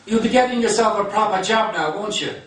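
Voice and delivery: high Irish uncle voice; Irish accent. Retold or imitated. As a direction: put on a high Irish lilt. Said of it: "zipped up their zips and went".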